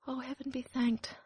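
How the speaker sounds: relieved sigh. Acted. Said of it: "sighed the duckling".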